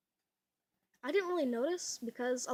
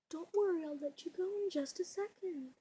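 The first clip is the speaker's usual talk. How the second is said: higher, singsong reassurance to a cat; soothing pet talk; 6 semitones higher than usual. Real, not acted. Telling the cat it can go soon, soothing. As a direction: coax a restless pet in a higher voice.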